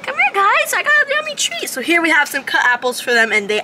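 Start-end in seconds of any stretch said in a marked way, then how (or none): 0.0-1.7 high, sing-song call to the monkeys. Real, not acted. Zookeeper coaxing monkeys toward a treat, high sing-song call. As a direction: coax them over in a high voice.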